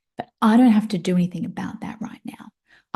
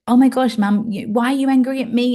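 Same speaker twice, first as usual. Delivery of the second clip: put-on higher, louder teen protest; mock upset daughter; 4 semitones higher, 5 dB louder than usual. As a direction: play the hurt daughter crying out.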